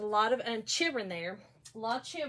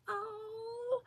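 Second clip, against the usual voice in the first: high, soft pitying coo; sympathetic aww; 12 semitones higher, 8 dB quieter than usual. Retold or imitated. Reacting to a crying fan, soft high sympathy. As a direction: coo softly with pity, pitched way up.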